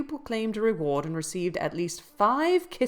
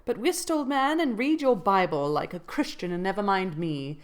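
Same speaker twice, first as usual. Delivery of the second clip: teasing housekeeper; 3 semitones higher than usual. Acted. Nelly teasing Joseph.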